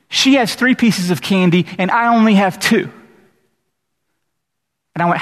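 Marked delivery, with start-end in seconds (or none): 0.1-2.9 lightly voiced upset kid, a bit higher; whining child. Child complaining to pastor about candy, lightly whiny kid voice. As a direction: complain like a small kid who got less candy. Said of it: "They go".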